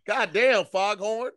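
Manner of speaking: laughing loud exclamation; laughing exclaim. Real, not acted. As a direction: burst out laughing at a friend. Laughing at stutter.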